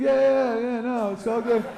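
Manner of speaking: mocking high voice; goofy high voice. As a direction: pitch it up like a cartoon. Voicing astronaut to moon.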